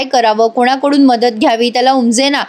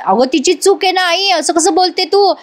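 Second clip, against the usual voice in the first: indignant protest pitched well higher; angry; 6 semitones higher than usual. A narrator's reading. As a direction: hurl it back at her mother, offended. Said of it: "Sumitrabai संतापून म्हणतात". (संतापलेल्या उंच आवाजात)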